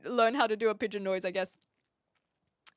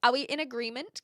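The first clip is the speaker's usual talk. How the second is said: ordinary talk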